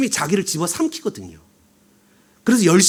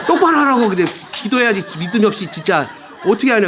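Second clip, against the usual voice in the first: mock scolding. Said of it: "사람한테 얘기한 거예요".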